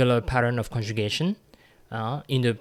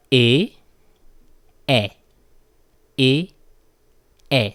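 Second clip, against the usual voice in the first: "E" repeated, each one hit hard and loud; loud drilled letter E; 9 dB louder than usual. Shown as a demonstration. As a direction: drill "E" at the class, loud and emphatic. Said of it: "let me repeat that one again".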